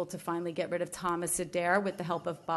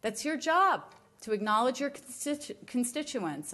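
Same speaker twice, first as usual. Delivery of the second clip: angry; 5 semitones higher than usual. Real, not acted. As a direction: scold the commission with real anger. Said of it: "I'm so angry".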